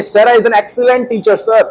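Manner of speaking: slow, careful reading of the answer; slow model answer. Shown as a demonstration. Teacher slowly dictates the correct answer to students. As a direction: read the answer out clearly for students. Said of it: "आप बोलेंगे".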